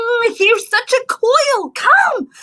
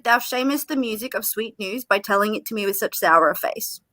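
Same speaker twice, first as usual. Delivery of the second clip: fast whisper; 9 semitones lower, 7 dB quieter, faster than usual. Acted. Juliet scolds nurse's sour face.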